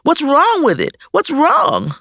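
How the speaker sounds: put-on rising panic in a small child; distressed child. A narrator's reading. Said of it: "she cried out".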